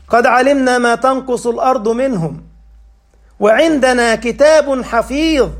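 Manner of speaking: melodic tajweed chant; chanted Quran verse in a sermon; Quran recitation. Acted. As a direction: recite the verse with measured cantillation. Recites Surah Qaf.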